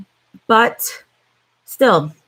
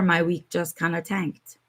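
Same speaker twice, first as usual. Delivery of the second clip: whispered, defeated aside; deflated whisper; 6 dB quieter than usual. Real, not acted. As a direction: breathe it out in a whisper, beaten. Deflated aside after bad news.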